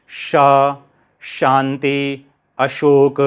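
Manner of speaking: श, शांति, अशोक slowly, with a long palatal sha; palatal sha demo. Shown as a demonstration. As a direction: stretch the palatal श in each word. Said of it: "श बोलते समय जीभ को वहीं पर". (श का धीमा तालव्य उच्चारण)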